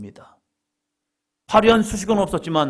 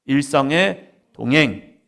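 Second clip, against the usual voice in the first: slow title call; 4 dB louder, slower than usual. Shown as a demonstration. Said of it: "자, 제목 같이 합니다".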